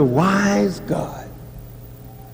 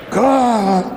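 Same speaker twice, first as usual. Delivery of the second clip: desperate prayer. Retold or imitated. Praying in trouble.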